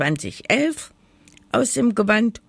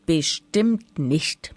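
insisting; slower than usual. Acted. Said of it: "behauptete das Hexlein".

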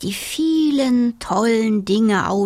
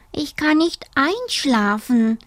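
sighing; 6 semitones higher than usual. Acted. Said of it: "seufzte der kleine Siebenschläfer".

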